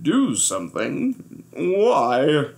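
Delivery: amused and unbothered; a relaxed smiling question. Acted. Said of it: "smiled the captain".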